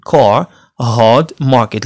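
كار، هارد، ماركت all with R dropped; long vowels, silent R in كار، هارد، ماركت; British soft R. Shown as a demonstration. Teacher recapping British words for learners, soft R. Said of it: "إذا غنقولوا".

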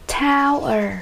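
"Tower" stressed on the first syllable; teacher modelling TOW-er. Shown as a demonstration. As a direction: hit TOW in "Tower", let the ending drop. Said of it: "Nhấn âm một".

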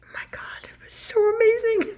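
real hushed whisper of wonder; awed whisper. Real, not acted. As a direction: breathe it out, overcome with awe. Awed aside while telling story.

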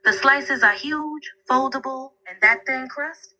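corny New York accent; thick New York accent. Shown as a demonstration. Assistant talking up New York pizza in a thick New York accent. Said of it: "do a really thick New York accent".

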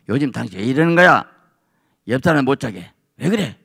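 a touch of gruff husband; blunt grumble. Retold or imitated. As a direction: grumble it bluntly, half awake. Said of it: "퉁명스럽게 남편이".

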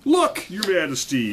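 high, loud excited call; shouted. A narrator's reading. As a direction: shout to get the king's attention. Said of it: "he shouted to the king".

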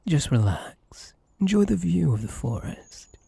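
whispered calm while carrying someone; soothing whisper. Acted. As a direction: lull them with a whisper.

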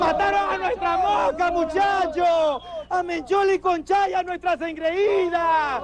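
drawn-out wail of outrage; theatrical lament. Acted. Man telling the lads their darlings were killed, drawn-out lament. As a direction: stretch the line endings in mock grief. Laments his slain fighters to friends.

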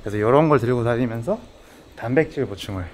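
muffled by cloth mask; speaking behind mask; through a face mask. Real, not acted. Seen 1: Speaker wears black face mask over mouth throughout; unmasked in references.

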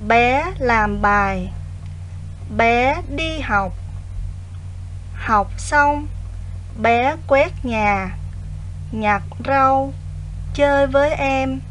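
put-on slow, clear dictation to children; dictating. Shown as a demonstration. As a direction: read each phrase slowly for pupils to write. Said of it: "nghe cô đọc đoạn chính tả nhé".

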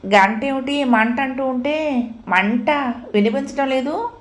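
irritated. Acted. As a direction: snap at the nurse in exasperation. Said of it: "విసుక్కుంటూ". (విసుగుతో, చిరాకుగా)

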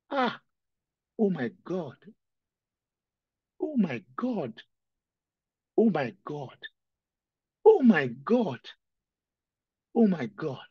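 anguished preacher crying to God. Real, not acted. Preacher weeping before the church, cries oh my God. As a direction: let the grief break through. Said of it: "The reason why I'm crying".

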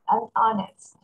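"Unhonest" as "an honest" with no H; silent H. Shown as a demonstration. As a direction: link "an" to the opening vowel in "Unhonest". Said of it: "Âm H này là âm câm".

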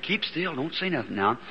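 softened, secretive warning; hushing. Retold or imitated. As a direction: hush him without being overheard. Hushing the man who knows secret.

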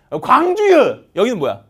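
loud, high Jeolla-dialect call of the city names; Gwangju dialect. Shown as a demonstration. Teacher imitating regional dialect for students, loud Gwangju dialect. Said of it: "지금 제가 광주 사투리 맞나요?".

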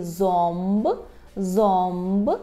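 зомб drawn out slowly as "zomb"; "om" before b. Shown as a demonstration. Teacher models the Polish word for tooth, зомб with om. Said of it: "Вимовляємо її як ом".

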